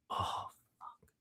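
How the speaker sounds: breathy whispered oh fuck under the breath; whispered curse. Retold or imitated. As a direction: mutter it to yourself in dismay, voiceless. Realizing in dismay, retold.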